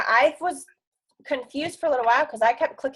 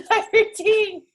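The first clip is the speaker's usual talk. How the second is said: high, slowed mock complaint; whiny, put-upon voice; mock indignant; 11 semitones higher, 4 dB louder, slower than usual. Mock user annoyed by app change.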